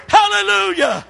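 very high, loud ecstatic HALLELUJAH; shouted hallelujah. Acted. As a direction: cry it out in joy. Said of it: "shouted hallelujah".

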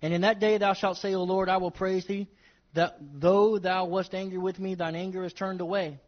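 solemn Bible reading; scripture reading. Acted. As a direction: read the verse with reverence. Reads scripture aloud.

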